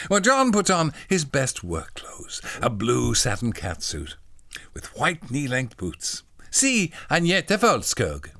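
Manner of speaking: measured storybook reading, key words punched; story narration. A narrator's reading. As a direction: read like a children's primer.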